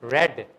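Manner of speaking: "ریڈ" with a short e, like red; third-form pronunciation. Shown as a demonstration. Teacher differentiating forms for students, "ریڈ" as "red". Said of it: "پھر ہی تو differentiate کریں گے".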